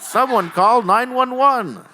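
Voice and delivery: high, loud, drawn-out plea; hammed-up emergency shout; mock cry for help. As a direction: holler for help after a pretend fall. Pretend fall off the stage.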